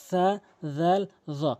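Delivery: সা, জাল, জ with tongue tip at front teeth; tongue-tip articulation. Shown as a demonstration. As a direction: say সা, জাল, জ one by one, tongue touching tooth edges. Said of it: "জিহ্বার আগা সামনে দুইটি দাঁতের আগা". (সা, জাল, জ জিহ্বার আগা দাঁতের আগায়)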